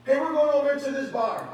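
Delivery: loud, high, breezy coworker voice; coworker inviting. Retold or imitated. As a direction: toss out a cheery invite. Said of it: "folks have me at my job".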